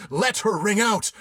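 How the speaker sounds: high, loud command; loud order. A narrator's reading. Captain ordering the bell rung, loud.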